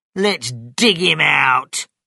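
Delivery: cross, loud storybook voice. Narrating a man answering his companions' question, angry. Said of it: "Bean said angrily".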